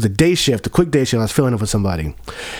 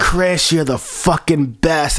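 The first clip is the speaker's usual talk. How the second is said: mock drunk praise; 3 semitones higher, slower than usual. Drunk customer fawning.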